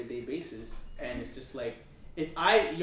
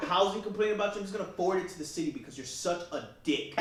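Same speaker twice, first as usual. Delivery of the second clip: angry; 8 semitones higher, 3 dB louder, faster than usual. Retold or imitated. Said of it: "I was like".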